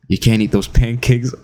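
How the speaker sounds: deadpan imitation of a flat talker; monotone. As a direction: say it dead flat, no emotion. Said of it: "a complete monotone".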